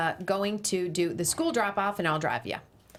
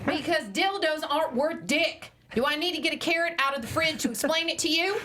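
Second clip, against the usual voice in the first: fast rant; 7 semitones higher than usual. Acted. Wife ranting at husband.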